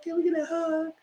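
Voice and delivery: high pleading mock-teary voice; hammed-up tearful plea; mock whiny crier. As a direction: imitate someone faking tears for a hug. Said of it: "you producing that crying".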